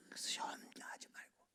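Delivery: hushed whisper to the church. Acted. Pastor leaning in to the congregation, whispering. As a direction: drop to a whisper, drawing them in. Sudden hush in sermon.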